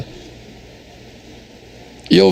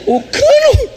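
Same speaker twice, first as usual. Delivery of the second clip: sudden high yelp of surprise; surprised squeak; much slower than usual. Real, not acted. Pastor squeaks, amazed his wife is fixing the pipe. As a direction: jump way up in pitch on the word.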